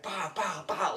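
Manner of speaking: high, punchy gunshot pows; imitated gunfire. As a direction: mimic shots going off. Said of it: "like, firing".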